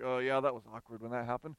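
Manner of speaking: a hint of embarrassed Peter; awkward Peter. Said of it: "Peter like".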